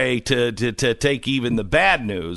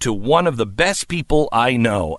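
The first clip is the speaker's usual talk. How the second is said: ad read. Acted. Reads a podcast ad.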